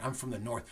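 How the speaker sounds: softly weighted "I'm from the north"; hushed capital N on "north". Shown as a demonstration. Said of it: "say it with a capital N. Imagine that in your mind".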